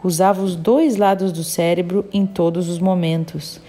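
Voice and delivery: measured, even read-aloud storytelling; audiobook narration. A narrator's reading. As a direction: read the passage out evenly, phrase by phrase. Reads a book aloud.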